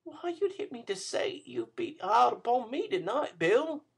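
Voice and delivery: put-on high, gentle young woman's voice; a lightly voiced pleading girl. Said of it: "said the girl".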